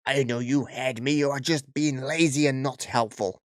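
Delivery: a hint of an entitled Karen, indignant; lightly put-on rude customer voice. Rude customer scolding the shop assistant, mildly put-on Karen voice. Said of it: "I can't keep this voice up".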